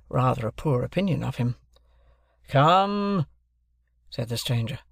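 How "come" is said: high, drawn, impatient summons; bullying prod. A narrator's reading. Stranger prods hesitating Wopsle, impatient.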